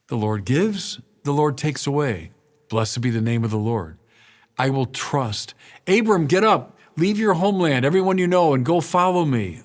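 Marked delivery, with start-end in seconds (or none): 5.9-9.6 voice of God calling. Acted. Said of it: "God calling Abram".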